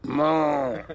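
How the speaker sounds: long drawn-out moo; imitated cow call. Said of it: "go mo".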